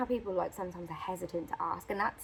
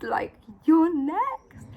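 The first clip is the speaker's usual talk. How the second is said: slow, drawn-out whisper; dramatic whisper; 8 semitones higher, 10 dB louder, much slower than usual. Retold or imitated. Clerk insisting to Rebecca she's next, slow whisper. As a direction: hush it slowly for suspense.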